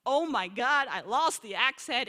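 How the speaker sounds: a half-hammed wail over a lost axe head; mock cry of dismay. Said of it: "and he cries out".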